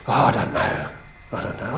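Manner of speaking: soft, half-voiced mumble; imitating an evasive teen mumbling off the question; mumbled reluctance. Retelling Paul dodging the mentor's question, softly mumbled.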